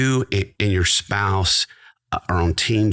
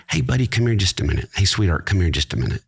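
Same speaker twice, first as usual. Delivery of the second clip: calm gentle summons; faster than usual. Retold or imitated. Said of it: "just using that voice".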